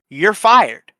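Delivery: loud, high declaration; triumphant shout. Retold or imitated. Cashier banning the rude customer from the drive-thru, shouted. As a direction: bark it out as a final verdict.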